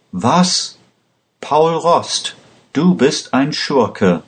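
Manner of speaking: angry cry. A narrator's reading. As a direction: read her outrage high, without really shouting. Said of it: "schrie Lisa Pandora wütend".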